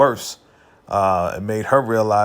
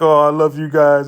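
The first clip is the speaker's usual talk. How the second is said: louder mock gushing; gushing affection; 3 semitones higher, 5 dB louder than usual. Kelly answers her friends' memorial, gushing affection. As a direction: gush it out, imitating a touched friend.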